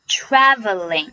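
"Traveling" slow, with a wide æ as in cat; careful slow "Traveling" with a full æ; open A vowel. Shown as a demonstration. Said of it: "要注意字母A发的是梅花音".

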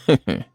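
low, short sneering laugh; a dry cold snicker; scornful little heh-heh; cold chuckle. Acted. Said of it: "齐健冷笑了一声".

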